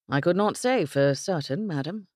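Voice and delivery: a hint of a formal English gentleman; polite, careful reply; lightly voiced Englishman. Englishman answering the cook politely, understated.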